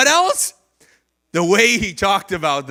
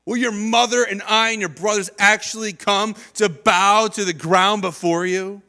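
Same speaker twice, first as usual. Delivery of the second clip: scolding. Retold or imitated. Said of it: "his father scolded him".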